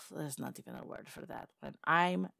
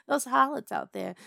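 scornful laugh; 8 semitones higher, 7 dB louder than usual. Acted. Siren laughs at associates.

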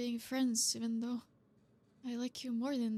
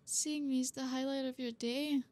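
teary. Acted. Drunk girl touched to tears.

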